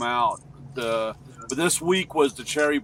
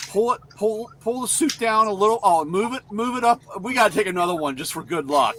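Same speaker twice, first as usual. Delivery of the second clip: excited camera crew; 6 semitones higher, faster than usual. Retold or imitated. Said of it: "they're like".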